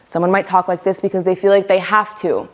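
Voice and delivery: projected demonstration voice; clearly audible, pushed-forward talk; full volume. Shown as a demonstration. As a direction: speak up firmly, as if you have to. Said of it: "The volume at which we speak".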